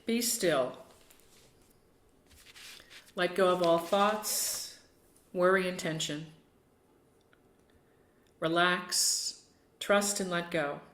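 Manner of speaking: unhurried meditation guide with long pauses; short calming cues, each left to settle; guided meditation. Acted. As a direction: ease listeners into stillness, phrase by phrase.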